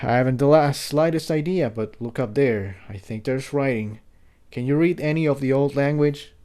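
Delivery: lightly voiced stallion, hushed in wonder; Jigsaw. Jigsaw asking Tiptoe about the ruins, softly hushed.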